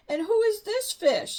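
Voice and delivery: high, loud pointed question; accusing. A narrator's reading. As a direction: demand it suspiciously. Sister suspicious and upset.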